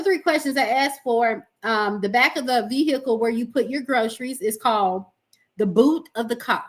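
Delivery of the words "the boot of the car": lightly English-sounding, dropped r in car; a hint of posh-English phrasing. Real, not acted. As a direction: say it with a touch of English. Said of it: "That's so English of you".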